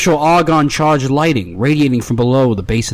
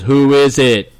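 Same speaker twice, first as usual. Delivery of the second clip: grumpy robot butler; slower than usual. Acted. GM voices robot butler at door.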